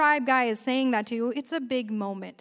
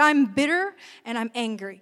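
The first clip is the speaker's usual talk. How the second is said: bitter; faster than usual. Retold or imitated. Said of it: "She said".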